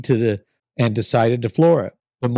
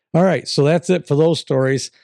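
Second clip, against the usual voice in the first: real sick raspy voice; 5 semitones higher than usual. Real, not acted. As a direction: talk through a sore throat, raspy. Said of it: "Sorry about my raspy voice".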